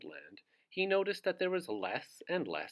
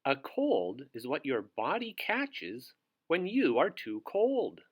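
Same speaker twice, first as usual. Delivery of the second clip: wise wizard; 5 dB louder than usual. Acted. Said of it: "said the wise old wizard wisely".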